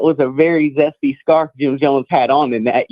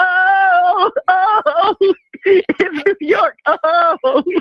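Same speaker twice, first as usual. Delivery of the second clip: shrill, very high acted scream, drawn-out oh. Retelling how a man was dancing on Jim Jones' back, imitating someone screaming. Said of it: "and start screaming".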